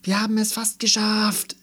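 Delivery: high-pitched urgent play-acting; excited child's call. A narrator's reading. Melissa answers Andi in pretend spaceship, excited call. Children playing astronauts in narrated story.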